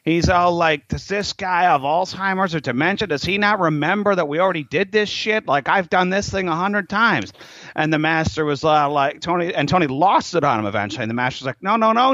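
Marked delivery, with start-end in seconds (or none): 0.9-7.3 higher-pitched exasperated griping; retold exasperation, pitched up; frustrated. Frustrated student griping about his old master, exasperated. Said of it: "Tony was so frustrated". 11.6-12.1 high-pitched insistent objection; correcting. Retold or imitated. Master stopping his student, high and insistent.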